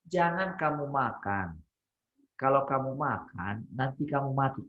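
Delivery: slow, measured warning; God's gentle warning. Shown as a demonstration. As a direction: say it slowly, like a caring father. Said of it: "intonasinya Tuhan pada waktu itu kira-kira gimana".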